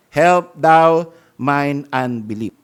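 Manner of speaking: slow, earnest plea; sincere prayer. Shown as a demonstration. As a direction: pray it humbly from the heart. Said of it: "A good prayer".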